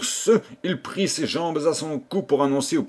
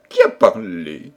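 startled demand; 6 dB louder than usual. A narrator's reading. Startled king asks.

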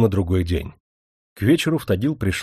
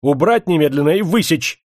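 loud, raised angry command; officer ordering punishment; barked order; 6 semitones higher, 5 dB louder than usual. A narrator's reading. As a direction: bark it at subordinates.

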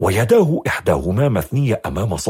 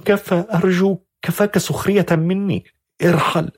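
high, weary plea; weary young woman; 9 semitones higher than usual. A narrator's reading. Young woman pleading the stranger to stop and leave, high. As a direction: beg him to stop mocking her. Shadha's voice.

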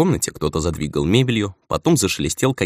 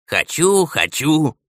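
put-on high, whiny-child taunt; mocking mimicry; 10 semitones higher, much slower than usual. A narrator's reading. Old man apes the elder's outburst, mocking. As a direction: parrot his demand back mockingly. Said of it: "передразнил его старик".

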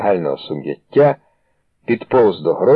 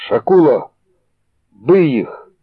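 higher frantic screaming; hysterical yell; 6 semitones higher, slower than usual. A narrator's reading. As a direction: egg him on in panic. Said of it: "істерично заволав Філон".

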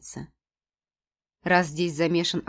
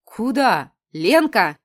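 scolding outcry; 3 semitones higher, 8 dB louder, much slower than usual. A narrator's reading. Varya scolds her friend.

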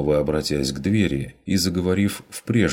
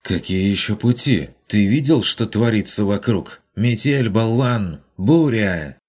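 much louder, higher screaming woman; furious yell; 6 semitones higher, 5 dB louder than usual. Acted. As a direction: scream insults through the door. Woman outside yelling insults. (яростный крик за дверью, громко и высоко)

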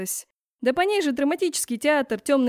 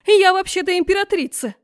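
much higher, much louder screech; hysterical shriek; 8 semitones higher, 8 dB louder than usual. A narrator's reading. Empress shrieks her rank at girl, hysterical. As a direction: scream your title in outrage.

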